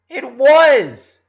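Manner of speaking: loud, high shout to match hers. Acted. Lincoln, matching Ronnie Ann's yell, shouting back. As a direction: shout back just as hard. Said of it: "raising his voice to match hers".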